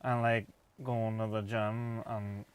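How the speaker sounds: put-on northern English accent, very slow. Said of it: "it's a northern accent, but it's just very slow".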